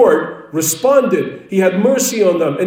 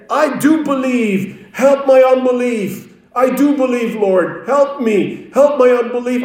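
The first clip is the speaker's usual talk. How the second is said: a higher, mild plea for help; pleading cry; 4 semitones higher than usual. Retold or imitated. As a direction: cry out a father's plea, understated. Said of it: "the boy's father cried out and said".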